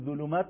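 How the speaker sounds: "ظلمات" said with a thin dh, as "ذلمات"; light dhal in place of ظ in "ظلمات"; mistaken dhal. Shown as a demonstration. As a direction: say "ظلمات" without any heaviness on the first sound. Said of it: "ظلمات شد دالزال".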